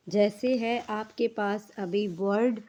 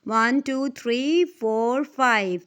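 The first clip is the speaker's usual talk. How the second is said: counting aloud; 3 dB louder, slower than usual. Shown as a demonstration. Counting syllables aloud for students.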